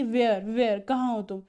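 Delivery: loud searching call. Retold or imitated. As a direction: shout where he is. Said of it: "लॉन्सलॉट बोलता है".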